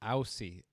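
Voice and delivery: "Aussie" with "ow" as in cow, /aʊsi/; Aussie pronunciation. Shown as a demonstration. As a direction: say "Aussie" like OWS-ee. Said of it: "They pronounce it Aussie".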